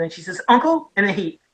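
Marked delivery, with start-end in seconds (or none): 0.5-0.9 high, questioning, mildly scared; imitated frightened voice. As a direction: mimic a frightened girl asking. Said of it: "like, frightened".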